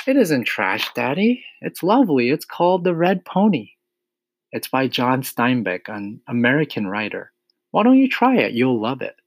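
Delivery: put-on high-pitched child pleading gently with her father; eager, high young daughter; earnest little girl. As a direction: voice a small girl defending something she loves. Voices Matilda defending her book.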